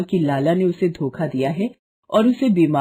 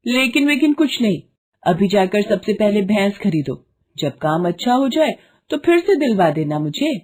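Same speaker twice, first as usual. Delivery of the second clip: higher, brisk overruling wife; firm wife; 3 semitones higher than usual. Acted. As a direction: cut his objection off firmly. Wife overrules husband's protest.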